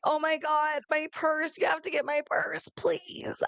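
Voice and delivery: frantic begging over a lost purse; pleading panic. Retold or imitated. Calling her friend about the purse, high frantic plea. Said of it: "and I'm like".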